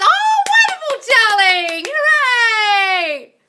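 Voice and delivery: high, loud drawn-out celebration; whooping, sing-out congratulations; jubilant cheer. Real, not acted. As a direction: cheer them on at full voice. Cheers a follower's success comment.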